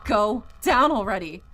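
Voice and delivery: loud, desperate yell at the clogged sink; frantic shout. Acted. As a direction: scream it at the drain in frustration. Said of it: "and then shouting".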